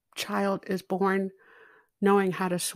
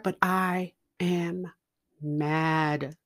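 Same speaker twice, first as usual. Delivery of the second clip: usual speaking voice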